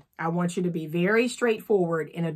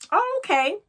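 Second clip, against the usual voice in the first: man's reply; 12 semitones higher than usual. Retold or imitated.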